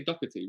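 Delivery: Doherty as DOCK-er-tee; simple pronunciation. Shown as a demonstration. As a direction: say Doherty easily, with a k sound. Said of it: "You could just say".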